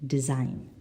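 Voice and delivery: "design" stressed on the second syllable. Shown as a demonstration. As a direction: lean on the last syllable of "design". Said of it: "the second syllable".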